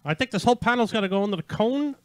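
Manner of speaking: Maxwell Smart voice; lightly voiced Get Smart agent; Max. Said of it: "It's Max".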